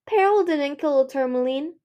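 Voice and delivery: airy queen, lifted pitch and volume. A narrator's reading. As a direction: toss it off as a trifle. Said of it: "Queen Scarlet said airily".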